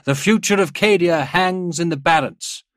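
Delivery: loud, high-pitched war oratory; proclamation read aloud. A narrator's reading. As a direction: thunder out the written orders to the army. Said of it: "began to read".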